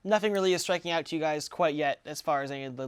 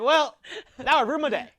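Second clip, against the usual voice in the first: higher, louder startled goblin; alarmed goblin; 6 semitones higher, 6 dB louder than usual. Acted. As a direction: yelp it out, nervous and pitched up. Goblin reacts to threat.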